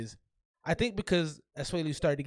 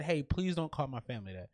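softer, measured plea; imitating a calm request; 3 semitones lower, 6 dB quieter than usual. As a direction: calmly imitate someone asking politely. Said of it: "he asked her extremely calmly".

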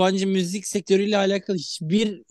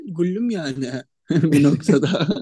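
laughing; slower than usual. Real, not acted. Laughs over own word.

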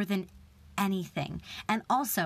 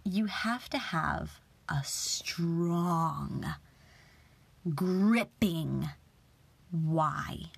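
whispered; much slower than usual. Retold or imitated. Quoting casting director, whispered line.

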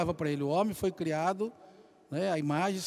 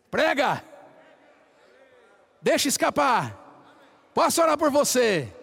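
higher and louder, the middle cry dragged out very slowly; preaching exhortation; 5 semitones higher, 5 dB louder, slower than usual. Acted. Preacher exhorting the congregation to go pray, loud and rising. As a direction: urge them hard like a fired-up preacher.

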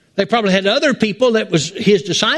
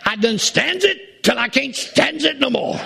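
a light Popeye voice, pitched a touch higher and softer; Popeye impression; 7 semitones higher, 4 dB quieter than usual. Martha fed up, lightly voiced as Popeye. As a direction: lightly play Popeye at the end of his rope. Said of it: "Martha got like old Popeye the Sailor Man".

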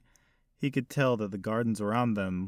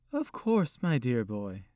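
put-on elderly lady; 3 semitones higher, slower than usual. Old hostess voiced by narrator.

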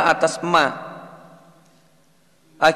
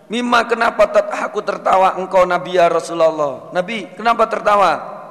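eager asking; 4 semitones higher, 4 dB louder than usual. Acted. Companions asking why he laughs.

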